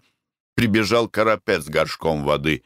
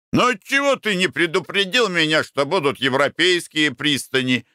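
annoyed; 8 semitones higher than usual. A narrator's reading. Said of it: "начал сердиться".

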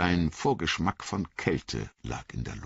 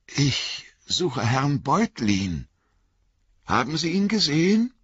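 muffled voice of a hooded rider; 11 semitones higher than usual. Acted. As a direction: speak muffled through a scarf. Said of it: "gedämpfte Stimme".

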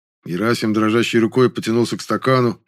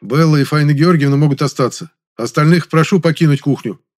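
firm, raised, louder order; brooking no objection; 5 semitones higher, 6 dB louder than usual. A narrator's reading. Man clears the neighbours out of the kitchen, commanding. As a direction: give an order that allows no argument. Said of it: "Мой тон не допускал возражений".

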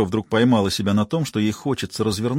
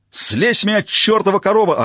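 much higher, louder furious yell; 9 semitones higher, 4 dB louder than usual. A narrator's reading. Rollo yelling at Jane pinning him down. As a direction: scream it from under her. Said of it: "орал Ролло".

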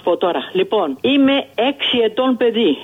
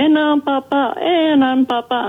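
retold crowd calling out, raised a little; 5 semitones higher than usual. Old woman retells the crowd calling for a priest. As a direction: echo the starving crowd's cry. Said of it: "Φωνάζανε".

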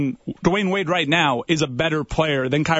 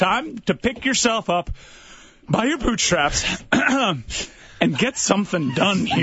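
pep talk; 3 semitones higher, slower than usual. Acted. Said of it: "That's a terrible pep talk".

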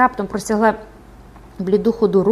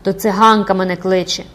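raised, frenzied exclamation; crying out; 5 dB louder than usual. Acted. Recluse convinced a gypsy calls her, crying out. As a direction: cry it out wildly. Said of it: "закричала вона".

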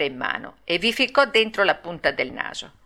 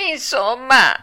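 higher, louder puppet outburst; exasperated cry; 5 semitones higher, 5 dB louder, slower than usual. A narrator's reading. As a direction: burst out, fed up. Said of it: "gridò Pinocchio".

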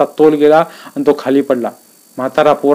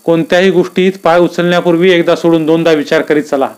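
warning tone; 3 semitones higher than usual. Acted. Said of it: "धोक्याची सूचना द्यावी तशा".

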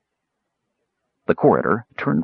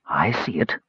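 calmly; 3 semitones lower, 5 dB quieter than usual. A narrator's reading. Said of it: "Sturm said calmly".

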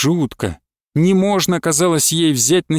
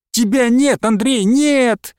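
a drawn-out anguished moan of despair; a wife moaning to her husband, slow and high; 8 semitones higher, slower than usual. A narrator's reading. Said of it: "простонала Настёна".

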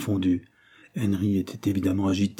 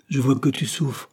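gentle sympathy, pitched higher; compassionate; 6 semitones higher than usual. A narrator's reading. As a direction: show tender concern for a suffering friend. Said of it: "dit William avec compassion". (avec compassion)

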